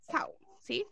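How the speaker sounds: "sau" dicho suave, la L final como u; "sau" pronunciado casi en susurro con u final. Shown as a demonstration. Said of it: "Se pronuncia". ("sau" con L final convertida en u)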